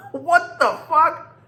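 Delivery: drawn out, high laughing what the fuck; slow, giggling outburst of disbelief. Real, not acted. Laughing disbelief after rant.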